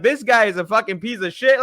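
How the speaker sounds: mildly mocking critic; mock roasting. Host retells haters roasting him, mock scorn. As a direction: imitate a scornful online hater. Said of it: "roasting me and shit".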